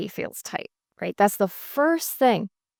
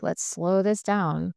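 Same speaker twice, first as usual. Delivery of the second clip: slowing down; slower than usual. Shown as a demonstration. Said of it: "So I slow everybody down".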